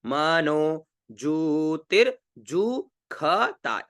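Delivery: मनोज्योतिर्जुखता with ष said as ख, very slowly; teacher showing the ख sound in मनोज्योतिर्जुखता; very slow recitation. Shown as a demonstration. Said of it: "इसको ख का उच्चारण करेंगे".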